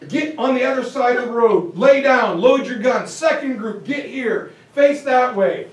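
a general setting the line, firm and loud; barking orders. Retold or imitated. Lee ordering his men into position, commanding. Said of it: "And Lee's like".

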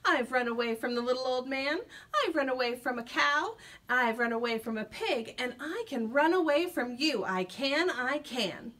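a touch of a boastful shout. Acted. Gingerbread man shouts his boast at the fox. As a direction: crow it out proudly. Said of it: "shouted out".

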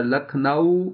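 لکھنؤ with a clear rounded واو, lips fully rounded; Lucknow with clear diphthong. Shown as a demonstration. Teacher showing how to say لکھنؤ. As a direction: say لکھنؤ with a distinct au glide. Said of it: "واضح طور پر ادا".

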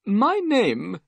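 high-pitched nervous little man's voice. A narrator's reading. Bald little man introduces himself to guests, nervous. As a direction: speak high, as an odd nervous host. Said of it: "he seemed very nervous".

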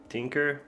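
"Tinker" said as an everyday word; casual nonstandard pronunciation. Shown as a demonstration. Host admitting their own name for the package, casual nonstandard "Tinker". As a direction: say "Tinker" like the English word, TINK-er. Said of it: "it's not pronounced like that".

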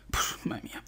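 awed breathless whisper; a hushed puf, madre mía. Real, not acted. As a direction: breathe it out in awe. Awed after the explosion.

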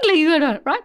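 a hint of cutesy dog-coaxing voice; play-acted girly coo. Shown as a demonstration. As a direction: imitate girly encouragement for a dog. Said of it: "he calls it girly voice".

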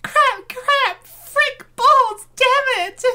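loud, high flustered swearing; panicked cursing. Acted. Character panics after mishap.

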